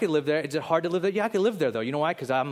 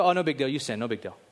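casual dismissal; faster than usual. Pretend. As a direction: wave it off lightly, voice falling away. Mimicking God casually dismissing sin.

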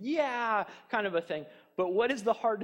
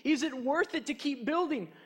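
discouraged builders voiced; 4 semitones higher than usual. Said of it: "they could say".

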